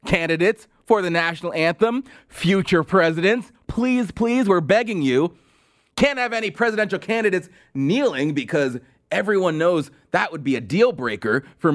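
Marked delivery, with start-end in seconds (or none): 0.1-5.4 imitation of pleading anchors; mock begging. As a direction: plead in hammed-up desperation. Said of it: "they had to beg the candidates".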